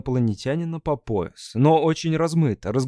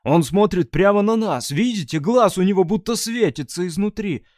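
awed exclaiming; 6 semitones higher, 3 dB louder than usual. Acted. Messarzh points at the eye.

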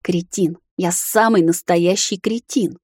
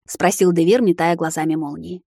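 ordinary delivery

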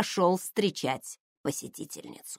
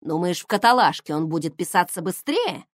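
snide question. Acted. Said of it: "ехидно поинтересовался".

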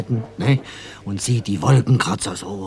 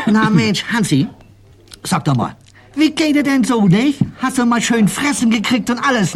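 much higher, louder sing-song pet talk; 4 dB louder than usual. Retold or imitated. Owner cooing to the parrot Hansi, high sing-song. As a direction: coo at the parrot, pitched high. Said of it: "da sagt sie".

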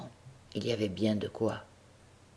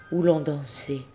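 softer echo; 3 semitones higher than usual. Shown as a demonstration. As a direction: let où l'on dansait fade as an echo. (où l'on dansait, repris plus doucement)

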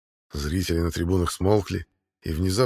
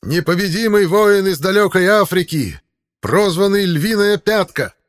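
market barker; 11 semitones higher, 8 dB louder than usual. Acted. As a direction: sell the fighter like goods at market. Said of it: "интонации расхваливающего товар рыночного зазывалы". (зазывала, расхваливающий товар)

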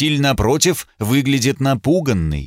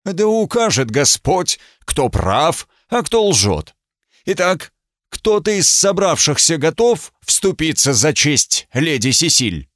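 higher, solemn proclamation; loud clear voice; 5 semitones higher than usual. Acted. Judge proclaiming God's judgment to the crowd. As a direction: announce it to all. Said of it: "сказал громким, ясным голосом".

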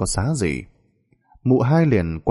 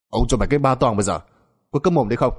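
quick, impatient threat; irritated scolding master; 3 semitones higher, faster than usual. Acted. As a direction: shut the servant up briskly. Master threatens panicking servant. (giọng ông chủ quát mắng, bực bội)

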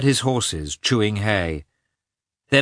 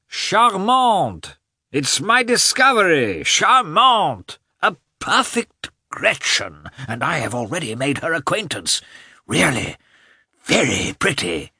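high, loud delighted gushing; delighted approving; 9 semitones higher, 4 dB louder than usual. A narrator's reading. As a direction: gush about the pretty girl. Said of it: "in such an approving way".

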